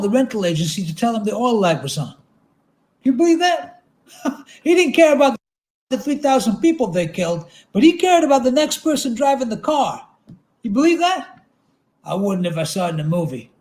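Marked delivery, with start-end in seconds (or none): 3.0-11.5 high, loud incredulous rant; indignant Otter. Acted. Otter ranting to the narrator about the hijacker, higher and loud with disbelief. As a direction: push each question up in disbelief.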